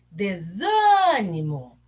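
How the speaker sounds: SÂ in "Desânimo" drawn out loud; stress on SÂ. Shown as a demonstration. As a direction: call out "Desânimo", holding SÂ long. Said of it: "O zan é forte".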